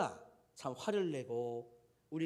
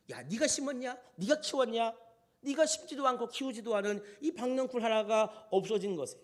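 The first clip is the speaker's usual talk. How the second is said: higher-pitched challenging questions, mildly stern; acted rebuke; 5 semitones higher than usual. God questioning Jonah over the vine, mild acted scolding. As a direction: take Jonah to task, lightly heated. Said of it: "우리 하나님이 질책을 하는".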